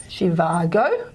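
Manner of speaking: "Zhivago" slowly, the middle drawn out, ending on a rise; ZH sound demo. Shown as a demonstration. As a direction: stretch "Zhivago" out as an example word. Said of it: "Z H as in Zhivago".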